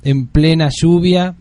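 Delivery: very slow, drawn-out solemn announcer delivery; grandiose radio introduction. Acted. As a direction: announce the guest with long dramatic pauses between phrases. Mock-solemn introduction of the guest.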